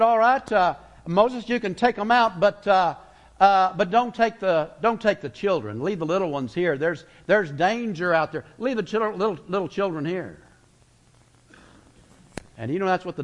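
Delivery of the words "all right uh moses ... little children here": a hint of a scheming Pharaoh. Preacher acts Pharaoh's compromise.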